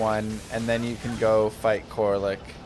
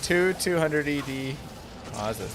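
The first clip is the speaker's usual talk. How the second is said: put-on slow, drawn-out old-timey announcer; 3 semitones higher than usual. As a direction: read it like an old-fashioned newsreel. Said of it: "I did an old-timey voice".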